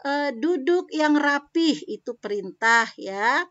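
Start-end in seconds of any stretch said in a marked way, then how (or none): 0.3-1.8 high, loud "Duduk yang rapih"; commanding tone. Shown as a demonstration. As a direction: give it as a firm order. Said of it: "kalau perintah misalkan".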